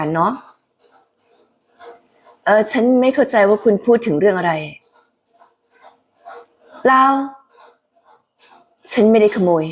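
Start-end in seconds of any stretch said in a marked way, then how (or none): 2.4-9.6 Haley Atwell dub voice. Acted. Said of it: "ลองคิดถึงเสียงของ Haley".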